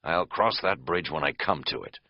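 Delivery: calm, unmoved reply at everyday pitch; don't rise to the panic at all; implacable. Acted. Friend answering the frantic camper, implacable. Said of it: "Kat said implacably".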